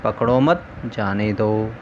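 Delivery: "पकड़ो मत", pause, then "जाने दो"; group मत with पकड़ो, break, then जाने दो; pause after MAT. Shown as a demonstration. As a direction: break the phrase right after मत. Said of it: "वहाँ अल्प विराम लगा".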